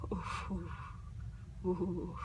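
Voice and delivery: soft frustrated ooh sounds; exasperated ooh. Real, not acted. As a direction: seethe quietly. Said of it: "I am so mad".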